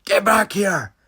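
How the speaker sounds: loud, high, drawn-out yell; angry shout. Retold or imitated. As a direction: bellow it from the front door at fleeing kids. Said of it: "front door shouting".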